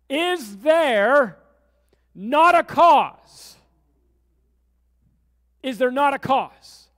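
loud, slow, booming indignation; outraged challenge. Retold or imitated. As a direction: thunder the question out like a prophet. David's outraged challenge quoted.

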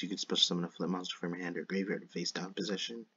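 slight lisp on the s sounds. Real, not acted. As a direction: let each s slur into a lisp. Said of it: "sorry about my lisp".

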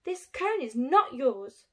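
loud insistent. Acted. Squirrels quarrel over cone.

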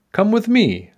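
high-pitched little rescuer; urging knight. A narrator's reading. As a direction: urge her along as Sir Small. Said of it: "Sir Small told her".

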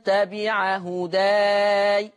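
slow recitation, long open aa in هداي; fatha on هداي. Shown as a demonstration. Teacher showing the class the fatha reading, هداي with open aa. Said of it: "هكذا بالفتح".

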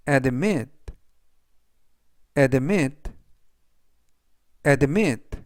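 careful, spaced-out vocabulary drill; slow model reading. Shown as a demonstration. Teacher reviewing words for learners to repeat, slow careful reading. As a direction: read it three times, leaving room to repeat. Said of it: "제가 천천히 세 번씩 읽어드리고요".

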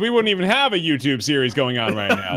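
lightly imitated self-important co-host; mock a friend taking all the credit; teasing co-host impression. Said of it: "that's my impression of you".

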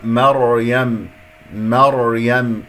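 مريم slow, as mar-yam with a held thick r; correct heavy ra. Shown as a demonstration. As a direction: recite مريم deliberately, open ma. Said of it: "مريم مرت معنا".

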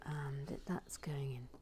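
hushed whisper to the camera; soft whispered aside. Real, not acted. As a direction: whisper so as not to disturb.

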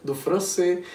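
learner's French. Shown as a demonstration. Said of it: "começou a se apresentar".

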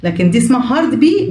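heavy, voiced B sound; hard B. Shown as a demonstration. Teacher to kids, heavy hard B. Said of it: "بي تقيلة شوية".

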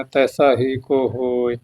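slow fresh phrase from ਤੈਸਾ; resume after pause. Shown as a demonstration. Teacher showing the verse break, slow restart on ਤੈਸਾ. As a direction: begin ਤੈਸਾ separately, slowly, after a rest. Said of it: "ਇੱਥੇ ਵਿਸ਼ਰਾਮ ਲਾਉਣਾ".

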